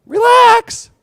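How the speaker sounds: very high, drawn out "Relax"; soothing relax. Retold or imitated. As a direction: stretch "Relax" high like a lullaby.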